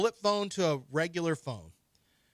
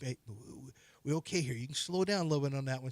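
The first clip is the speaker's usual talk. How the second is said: mock nagging wife; 3 semitones lower, 6 dB quieter, faster than usual. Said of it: "Just keep".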